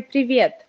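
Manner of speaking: "Привет" said the Russian way, pri-VYET, rolled r, stress on the last syllable; Russian greeting. Shown as a demonstration. Offering the interviewer the informal Russian hi, native pronunciation. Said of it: "or you could say".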